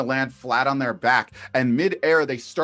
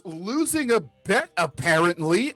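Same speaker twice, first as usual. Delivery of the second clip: disgruntled admission; 5 semitones higher than usual. Acted. Rescued character grumbles about bet.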